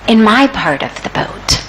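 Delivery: mildly calm retold reply; understated calm, as if nothing is wrong. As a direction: reassure them, lightly acting an unworried man. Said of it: "the third man says very calmly".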